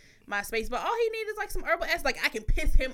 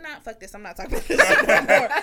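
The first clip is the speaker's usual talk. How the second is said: mock outburst; 10 dB louder, faster than usual. Imitating partner quitting the talk, loud mock outburst. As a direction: blow up and storm off, laughing.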